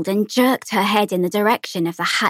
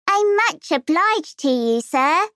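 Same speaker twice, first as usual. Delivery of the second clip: put-on a little girl reciting a learned phrase, higher; parrot fashion; 8 semitones higher, slower than usual. A narrator's reading. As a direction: rattle it off by rote like a taught mantra. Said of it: "repeated the words parrot fashion".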